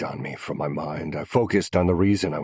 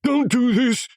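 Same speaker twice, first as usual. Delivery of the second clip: desperate plea; 7 dB louder than usual. A narrator's reading. Captive begs for his wife.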